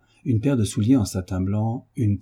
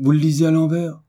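loud, high-pitched exclamation; crying out; 8 semitones higher, 6 dB louder than usual. A narrator's reading. Lestrade seeing Holmes read the paper, crying out. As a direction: call it out, raised and startled. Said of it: "cria-t-il".

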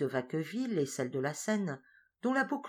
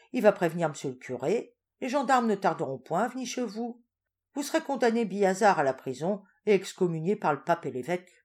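louder, relishing mock threat; sly farmer; 2 semitones higher, 4 dB louder than usual. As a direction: pile on the consequences. Farin spells out threats.

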